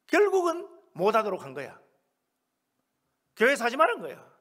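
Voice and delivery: emphatic sermon denunciation; indignant preaching. Real, not acted. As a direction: preach it with mounting exasperation. Preaches indignantly about the church.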